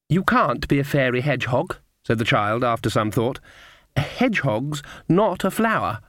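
put-on sweet little girl. Narrator voices little girl.

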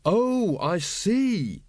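lightly voiced earnest young lad; slow dawning understanding; a hint of a puzzled young recruit; Carrot, young and earnest. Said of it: "he said eventually".

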